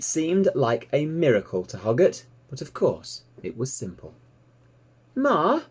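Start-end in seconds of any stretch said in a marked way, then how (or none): 5.1-5.6 put-on high, bright young piglet voice, thrilled; piglet Babe, delighted. A narrator's reading. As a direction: squeal it out like an excited little pig. Babe calls the old ewe.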